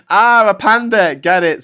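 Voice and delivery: high, loud, slow, hammed-up; mock squeal. Reading out Pete's joke in a squeaky voice. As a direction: squeal it like a silly punchline. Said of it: "says Pete".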